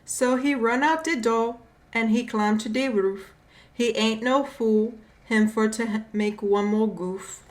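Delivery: put-on light Caribbean accent reading. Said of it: "I don't try to do a Caribbean accent".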